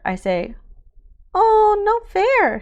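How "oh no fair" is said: put-on high, slow, loud whining little girl; toddler whine. A narrator's reading. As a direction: drag it out like a sulky toddler. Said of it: "she says".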